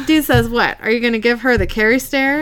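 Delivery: real laughter breaking the read; laughing through it. Real, not acted. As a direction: push on reading while still laughing. Reading through laughter fit.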